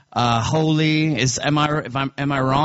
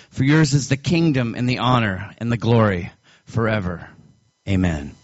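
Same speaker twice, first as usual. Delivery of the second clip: Lord's Prayer recited from memory, falling lower at line ends; prayer recitation; 4 semitones lower than usual. Shown as a demonstration. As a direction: recite it as a prayer, each petition sinking lower. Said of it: "Can I recite the Lord's Prayer for you?".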